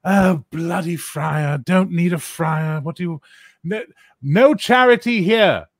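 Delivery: high, slow, sniffy brush-off; high sniffy barkeep; grumpy English innkeeper. Acted. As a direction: shoo the friar away, high and huffy. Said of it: "he looks at him and goes".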